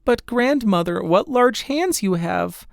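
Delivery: put-on a little girl puzzled at her granny; Redcap's voice. Redcap questions the wolf.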